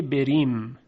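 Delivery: بریم with a thin, light r. Shown as a demonstration. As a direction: draw out بریم with a delicate r.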